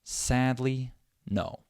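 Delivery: SADLY drawn out with SAD stressed, then a falling NO. Shown as a demonstration. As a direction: lean on SAD and on NO, measured. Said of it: "The first syllable is stressed".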